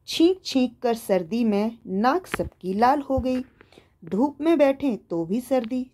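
put-on slow, measured children's verse; rhythmic poem recitation. Shown as a demonstration. Teacher reading a winter poem to young pupils, slow rhythmic recitation. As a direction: recite the poem slowly, keeping the beat. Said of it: "लय में गाते हुए हाव भाव के साथ पढ़िए".

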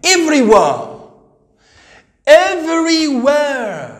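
everywhere said with an American r, stretched slow; teacher models the American way to say everywhere; American accent. Shown as a demonstration. Teacher demos an American accent for the class. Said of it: "As American accent".

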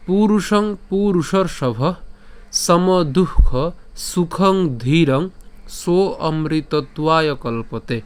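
slow, measured Sanskrit shloka recitation; deliberate chant-like verse reading. Shown as a demonstration. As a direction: recite the verse in drawn-out phrases, pausing between them.

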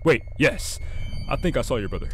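lightly voiced gruff gas station clerk; a hint of a grumpy night clerk, then suddenly helpful; shop clerk voice. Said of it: "I don't know why I gave him that voice".

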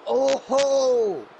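a burst of delighted surprise; excited oh ho. Real, not acted. Commentator greeting a surprise entrant, excited. Commentator reacts to rival entry.

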